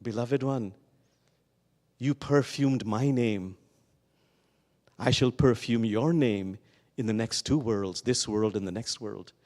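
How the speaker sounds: God speaking. Acted. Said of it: "and God says".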